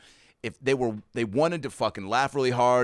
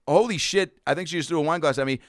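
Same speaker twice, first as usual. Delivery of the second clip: louder, higher, fast disbelief; shocked realization; 4 semitones higher, 3 dB louder than usual. Retold or imitated. The comic realizing the heckler threw a glass, fast and startled. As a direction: catch the glass flying at you mid-thought. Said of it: "And I'm like".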